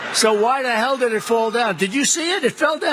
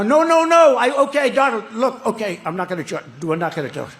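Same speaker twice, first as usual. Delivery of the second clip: mock French accent, giving in. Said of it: "His attempt at a French accent".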